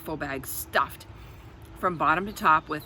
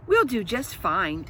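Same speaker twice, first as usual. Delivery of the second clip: assuring. Acted. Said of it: "she assured them".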